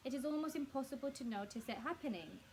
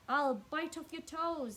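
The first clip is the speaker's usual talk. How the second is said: slow, louder, mock-monster threat; menacing Mr Twit; 6 semitones higher, 7 dB louder, slower than usual. A narrator's reading. Mr Twit teases his wife about the creature, slow and louder. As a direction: drag it out to scare her. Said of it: "said Mister Twit".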